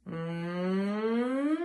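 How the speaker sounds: rising hum pulled back in the throat; hum going backwards. Shown as a demonstration. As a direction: let the hum slide backwards. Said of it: "sound tends to go backwards ... like this".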